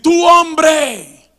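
loud, high preacher's shout; predicador gritando. Retold or imitated. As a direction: call out like an accusing preacher. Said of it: "comienza a decir". (grito de predicador acusador)

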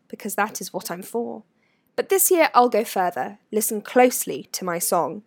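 measured, rhythmic verse recitation; Sorting Hat's verse. A narrator's reading. Sorting Hat warns the school in song, recited rhythmically. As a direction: recite it as a solemn warning in rhyme.

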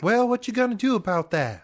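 high folksy pitchman; hammed-up folksy ad voice. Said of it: "sent us a recording".

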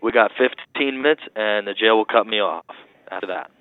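jail phone call; tinny talking telephone. Real, not acted. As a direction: voice over a crackly phone line. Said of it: "you're breaking up".

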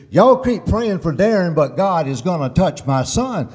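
eager, faith-filled news for the church; lightly voiced excited mother. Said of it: "she was excited".

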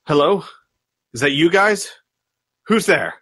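lightly voiced wary guard. Game master as someone hearing the party trip, lightly acted wary call. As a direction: call out to check who is in the next room.

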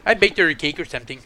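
a hint of a deadpan character impression; Pedro. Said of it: "Or Pedro".

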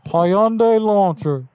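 folksy neighbourly caller, only slightly put on; Hank Hill voice. Prank caller greeting the car buyer, light Hank Hill voice. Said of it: "Yes, Hank Hill".

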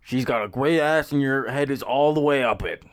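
lightly put-on actor voice that slides into Nixon; botched Al Pacino impression. Podcaster performing a movie line on request, botched impression. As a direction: try a famous actor's voice and miss. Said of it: "That was more like a Nixon".

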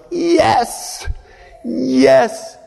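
very high excited yes; ecstatic yes. Retold or imitated. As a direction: squeal it with joy. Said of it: "I was like".

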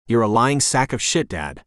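lightly voiced dog calling her owner a liar; a hint of the pet's cheeky voice on "shit"; Tequila voice. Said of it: "I say in my tequila voice".

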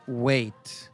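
serious, hushed story reading; dramatic story reading. Acted. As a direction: read it like a solemn tale of injustice. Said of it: "The way you read that like a story".

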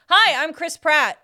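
slow, lightly voiced Chris Pratt; barely changed Chris Pratt voice; deliberately lame Chris Pratt; Chris Pratt impression. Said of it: "this is my Chris Pratt".

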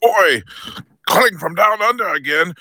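hammed-up Australian larrikin; over-the-top Australian accent; put-on Aussie accent. Caller doing Aussie voice.

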